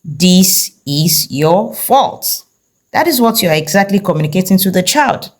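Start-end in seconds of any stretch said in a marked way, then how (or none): 0.0-2.4 slow accusing. Retold or imitated. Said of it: "this is what they sound like".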